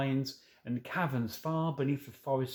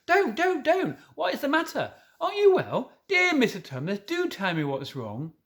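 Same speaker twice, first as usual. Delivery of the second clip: higher, louder anxious pleading; great distress; 7 semitones higher, 4 dB louder than usual. A narrator's reading. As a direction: beg him to stop crying. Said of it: "in a great distress".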